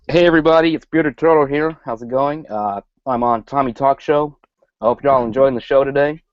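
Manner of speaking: a Brit doing a George W Bush-style American; American accent. Pretend. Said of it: "impression of an American accent".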